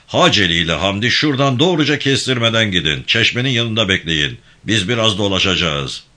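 a firm, lightly voiced gang chief giving orders; steady commanding tone, barely apart from the narration; commanding leader. İbrahim Bey plans.

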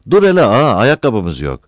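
high-pitched outburst easing off; loud protest. A narrator's reading. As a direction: push back against the boss. Protest in acted quarrel.

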